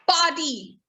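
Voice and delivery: "party" as pah-tee; silent R. Shown as a demonstration. Teacher introducing the next word, party with silent R. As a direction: drop the R from party. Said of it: "The R is almost silent".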